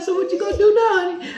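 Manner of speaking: high put-on voice of his wife asking what now; imitating his wife. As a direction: ask it like a doting wife. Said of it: "She's like".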